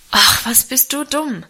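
annoyed outburst. A narrator's reading. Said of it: "rief er ärgerlich".

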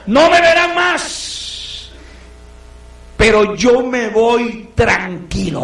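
drawn-out high farewell, very slow; Pablo's farewell. Acted. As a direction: stretch every word as a last goodbye. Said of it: "Pablo les dijo". (despedida lenta y alta)

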